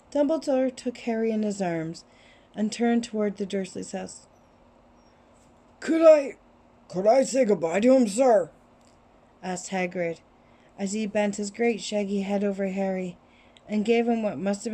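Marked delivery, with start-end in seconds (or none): 5.8-8.5 gentle giant voice. Acted. Giant pleads to say goodbye.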